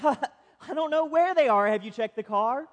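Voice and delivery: mock innocence through laughter; hiding a laugh while playing dumb; laughing husband. Husband teasing wife with a laugh, mock innocent.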